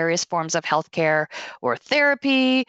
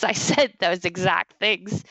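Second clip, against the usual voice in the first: normal talking voice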